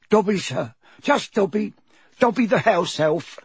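squeaky, humble elf; high-pitched creature. A narrator's reading. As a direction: introduce yourself in a high little voice. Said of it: "in a high-pitched voice".

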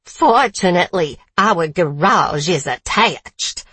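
put-on southern accent. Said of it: "Still southern accent".

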